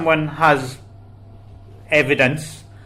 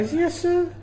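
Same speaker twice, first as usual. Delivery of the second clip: surprised; 5 dB quieter than usual. Real, not acted. Repeating surprised question.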